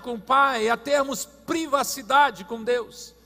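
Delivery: forceful preacher, high and loud; preaching. Real, not acted. Preacher urging the church into private prayer, forceful preaching. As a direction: project each phrase to the whole congregation.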